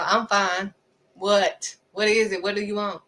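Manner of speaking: mildly testy, acting out impatience; irritated denial. Answering a caller while on edge, mildly irritated. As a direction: insist you're fine, then question curtly. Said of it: "that's how I would".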